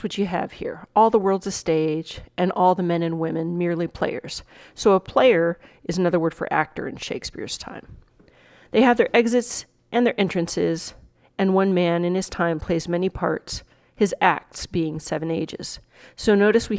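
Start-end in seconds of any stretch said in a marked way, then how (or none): 1.0-4.4 measured Shakespeare monologue reading; dramatic recitation. Acted. Teacher reading the monologue to students, dramatic recitation. 8.7-15.8 measured Shakespeare monologue reading; dramatic recitation. Acted. Teacher reading the monologue to students, dramatic recitation.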